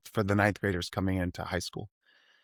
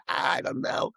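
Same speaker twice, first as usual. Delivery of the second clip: shut-down mumble; slower than usual. Retold or imitated. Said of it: "shutty down mode".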